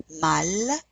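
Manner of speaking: French "mal" with the L sounded; final L pronounced. Shown as a demonstration. Teacher gives an example, "mal" with sounded L. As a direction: hold the L at the end of "mal". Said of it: "the only consonants that we generally pronounce".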